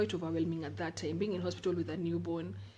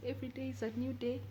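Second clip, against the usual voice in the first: higher, lightly put-on Kikuyu accent; Kikuyu woman accent; 6 semitones higher than usual. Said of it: "I want to talk like a Kikuyu woman".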